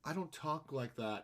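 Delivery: lightly imitated slow actor voice; a hint of an odd, deliberate delivery; slow, mildly mock celebrity protest; John Malkovich. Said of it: "And John Malkovich goes".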